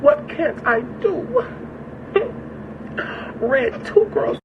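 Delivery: high slow giddy gloat. Real, not acted. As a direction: crow it out, delighted.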